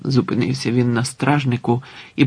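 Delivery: plain reading voice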